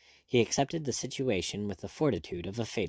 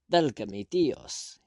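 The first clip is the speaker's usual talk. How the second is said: slow, pained cry in Spanish; anguished cry; 3 semitones higher, slower than usual. A narrator's reading. Dazed Spaniard fears for his sanity, anguished. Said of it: "he cried out like a man in anguish".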